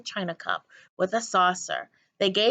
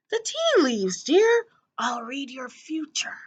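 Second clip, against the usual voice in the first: put-on higher, fluttery genteel old woman; higher dotty old lady; 5 semitones higher than usual. A narrator's reading. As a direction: pitch it up like a dotty old actress. Miss Spink voiced high.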